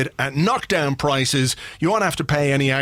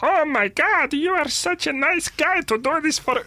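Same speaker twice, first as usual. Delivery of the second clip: put-on much higher, childlike foreign accent; squeaky mock kid with a foreign lilt; mock child voice; 14 semitones higher than usual. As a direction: imitate a game's child characters. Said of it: "even the children are like".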